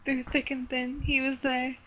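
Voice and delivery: very soft eulogy; subdued grief. Acted. Sally speaks at Josh's burial, hushed and grieving. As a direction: let it drop right down, softly. Sobbing Sally's funeral speech.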